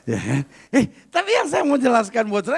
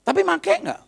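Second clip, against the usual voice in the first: pressing question; 9 semitones higher than usual. Retold or imitated. Pastor questions prisoner in retold dialogue.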